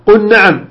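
قل نعم said as "qun-naam"; wrong assimilation. Shown as a demonstration. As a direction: drop the l of قل into a doubled n. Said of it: "خطأ".

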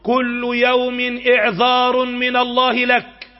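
slow, drawn-out proclamation; solemn warning. Real, not acted. Preacher warning listeners of God's daily reprieve, slow and solemn. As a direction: stretch each word out as a warning.

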